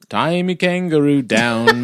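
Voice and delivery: slow, hammed-up Australian accent. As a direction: drag it out in mock Australian. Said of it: "Do you wanna try an accent".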